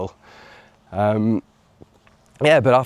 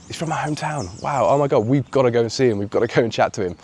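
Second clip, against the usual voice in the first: excited disbelief; 4 semitones higher, faster than usual. Retold or imitated. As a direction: re-enact your amazed reaction to the news. Reacting to coincidence in retold dialogue.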